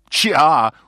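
lightly mimicked movie line with a high, loud opening yelp; Wayne. Retelling a Wayne's World scene, lightly mimicked. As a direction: kick off high and loud, then ease down. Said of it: "Wayne says".

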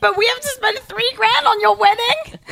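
high, loud incredulous questions; passionate indignation. Real, not acted. Host challenging a bride who sent evites, passionately incredulous. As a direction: fire off each question in rising disbelief. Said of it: "Sorry, I'm really passionate about this".

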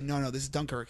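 low, very soft cinema aside; hushed retold reply. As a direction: act out answering discreetly during a film. Retells own answer during trailer.

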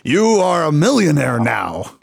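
sweepstakes announcer voice, lightly done; Ed McMahon. Retold or imitated. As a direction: proclaim it like a prize presenter. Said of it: "like Ed McMahon from Publishers Clearinghouse".

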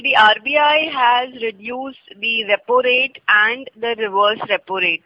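slow, measured news anchor read; news reader voice. Real, not acted. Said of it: "Now you sound like a news reader".

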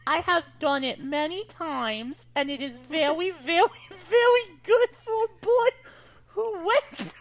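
put-on Baby Eddie voice. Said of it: "read Baby Eddie".

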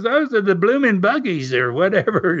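lightly imitating the Aussie guy, Australian accent. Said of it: "the Aussie".

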